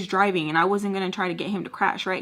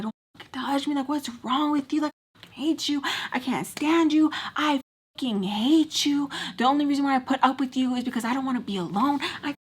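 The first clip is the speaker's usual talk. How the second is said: heated, pitched-up "I hate you" rant; retold screaming; 5 semitones higher than usual. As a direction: act out a screaming fight at normal volume. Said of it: "I'm just, like, screaming at him".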